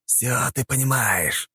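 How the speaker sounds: high, sharp cutting retort; sharp interruption. A narrator's reading. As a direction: cut him off sharply. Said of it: "резко прервал его кукловод".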